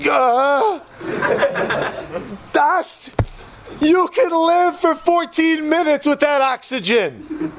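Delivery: high, slow, chuckling voice; laughing explanation. Retold or imitated.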